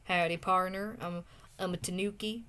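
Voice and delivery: lightly put-on stereotypical Texan accent. Streamer imagines the viewer's character talking, light Texan accent. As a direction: try a playful Texan twang. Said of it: "like, a Texan accent? Talk like that?".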